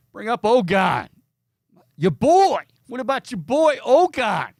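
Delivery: high, loud teasing voice; high mock voice. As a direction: tease it in a high voice. Teasing about nickname, voice raised.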